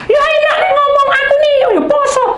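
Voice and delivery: high, loud whiny mock voice with a laugh; mocking complaint. Preacher mimicking a grumbling person, high whiny mockery. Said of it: "Bisa ndak tepat waktu".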